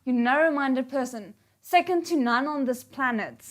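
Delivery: loud, hammed-up scolding; loud put-down; mock insult. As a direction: throw the insult across the room. Character hurling insults.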